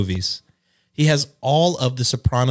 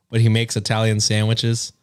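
ordinary talk, nothing marked

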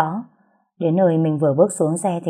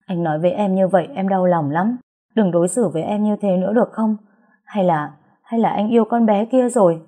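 tearful pleading; 3 semitones higher than usual. Acted. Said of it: "bật khóc tức tưởi rồi nấc lên nói".

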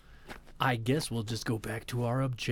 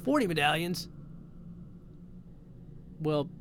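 disbelief; 5 semitones higher than usual. Real, not acted. Shocked at medallion count.

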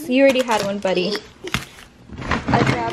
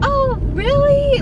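high, slow, drawn-out "oh really"; surprised friend; 14 semitones higher, slower than usual. Retold or imitated. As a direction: play it like a delighted friend hearing news. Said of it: "She's like".

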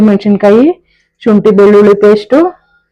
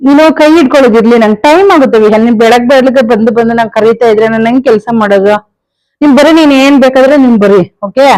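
exasperated scolding; 3 semitones higher than usual. Real, not acted. Mother to son Vihan who keeps interrupting, exasperated scolding.

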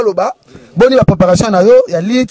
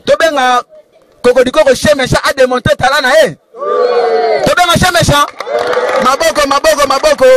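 high-pitched call to the crowd; rallying the crowd; 4 semitones higher than usual. Real, not acted. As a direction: get the club fired up. Rallying the club crowd to clap. (kobelela bato na mongongo ya likolo)

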